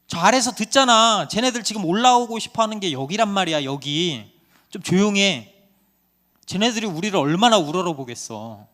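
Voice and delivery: loud, high acted caterpillar outcry; scolding shout. A narrator's reading. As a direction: shout the other one down to shut them up. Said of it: "또 다른 애벌레가 외쳐요". (다그치며 외치기)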